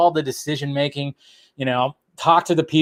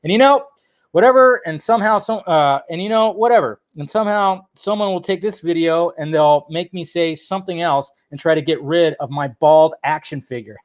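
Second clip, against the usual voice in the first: quoting Bill Burr. Retold or imitated.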